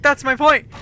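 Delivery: loud, high mock exasperation; exasperated retort. Friend proving his point about apologies, loud exasperated retort. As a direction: imitate a friend driving the point home loudly.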